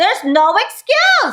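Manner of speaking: insistent ranting emphasis. Wrapping up a video for viewers, the host is yelling. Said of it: "I'm sorry for yelling yet again".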